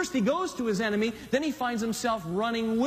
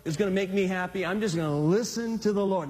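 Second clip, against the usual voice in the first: modelled humble prayer; 2 semitones higher than usual. Retold or imitated.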